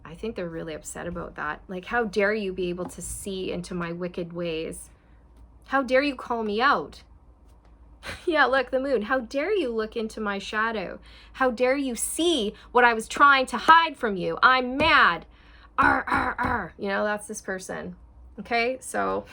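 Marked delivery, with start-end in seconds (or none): 1.8-7.0 mock indignant. Voicing the angry other person. 8.2-15.3 loud hammed-up outrage, higher and louder; mock fury. Tarot reader acting out the angry person, hammed-up loud fury. 15.8-16.7 playful loud "arr" growls; mock angry growl. Reader mocking the person's rage with playful growls.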